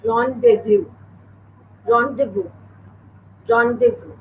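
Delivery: rendezvous said "RON-day-voo", silent z and s; correct French rendezvous. Shown as a demonstration. Teacher modelling a word for pupils to copy, careful rendezvous "ron-day-voo". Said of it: "It's pronounced as".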